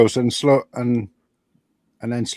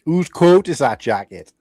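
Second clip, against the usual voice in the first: slow, louder mock-Welsh question; Welsh accent; 3 semitones higher, 5 dB louder, slower than usual. Shown as a demonstration. Showing friends how to take off the Welsh, slow Welsh accent. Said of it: "the easiest way to take off the Welsh".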